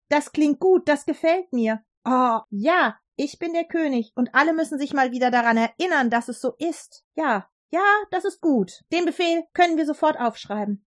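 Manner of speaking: a vain king delighted with his own idea; thrilled king. Acted. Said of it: "König Darius war begeistert". (begeisterter König, etwas höher und schneller)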